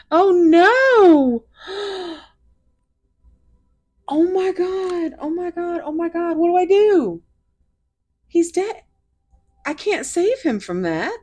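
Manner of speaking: high, loud cries of alarm; real panic over a dying little bug; panicked distress. Real, not acted. Reader panics as the bug friend dies on camera, high loud distressed cries. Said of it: "I am seriously getting emotional".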